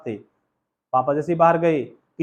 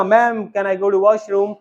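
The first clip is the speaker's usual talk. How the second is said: put-on small child asking; 3 semitones higher, 4 dB louder, much slower than usual. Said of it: "जैसे बच्चे ने बोला".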